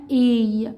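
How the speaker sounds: "اي" drawn out as the letter name "ay"; long A sound. Shown as a demonstration. Teacher names the long vowel for a learner, "اي" held long as "ay". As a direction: say "اي" as a long, gliding English A. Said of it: "الصوت في اللونج بيكون اي".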